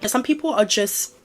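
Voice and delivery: croaky, voice cutting out; voice giving out. Real, not acted. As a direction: voice catching, needing to clear throat. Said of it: "Can my voice come back to me".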